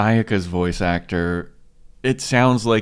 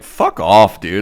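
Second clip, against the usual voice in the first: mock rude brush-off; 9 dB louder, slower than usual. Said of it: "He's like".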